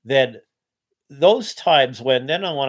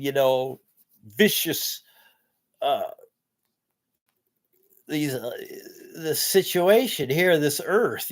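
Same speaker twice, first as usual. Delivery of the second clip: despairing rant. Retold or imitated. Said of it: "a little bit of my rant is that".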